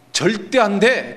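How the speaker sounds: imitating a king's firm no; emphatic refusal. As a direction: refuse point-blank, drawing the words out. Acts out Pharaoh's refusal.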